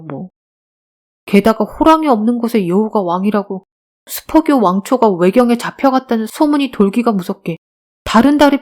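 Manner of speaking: lightly voiced young beggar, animated; earnest street boy. Beggar boy telling teacher of his boss's arrest, earnest. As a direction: recount the grievance with lively, rising emphasis.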